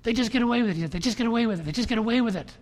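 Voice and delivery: loud and high, falling hard; loud indignant repeat; bitter outrage. Retold or imitated. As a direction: hammer the injustice.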